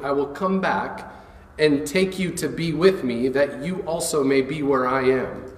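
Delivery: steady, solemn reading of the Gospel; scripture reading. Acted. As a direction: read the passage aloud to the congregation. Reads John fourteen aloud.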